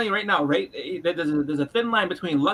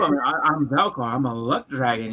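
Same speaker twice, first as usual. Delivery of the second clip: luck dragon voice; 5 semitones lower than usual. Retold or imitated. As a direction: drag it out like a creepy dragon. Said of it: "the whole inflection of his voice".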